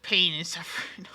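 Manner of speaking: whispered, hammed-up despair; mock-tragic whisper of self-pity; mock dramatic whisper. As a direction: drop to a breathy stage whisper of doom. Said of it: "I can't even say that seriously".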